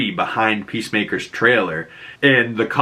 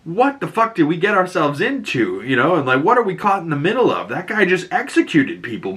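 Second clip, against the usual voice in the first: mild mock panic, pitched up; higher, lightly alarmed retelling; freaking out a little; 6 semitones higher than usual. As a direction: imitate someone starting to freak out. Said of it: "he's freaking out a little bit".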